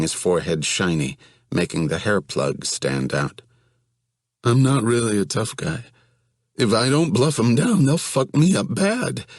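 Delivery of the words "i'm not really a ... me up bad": high, panicky, pleading voice; whiny scared young man. Acted. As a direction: voice him as a frightened, whining guy. Johnny pleads with Evan.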